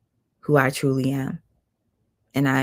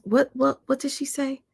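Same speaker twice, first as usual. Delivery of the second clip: much higher, stunned repeated what; incredulous; 10 semitones higher than usual. Real, not acted. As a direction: sputter in disbelief. Recalling the weight claim.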